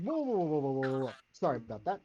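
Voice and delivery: a tiny voice backpedalling in a hurry; little voice. Acted. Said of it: "you hear a little voice in the back of your head".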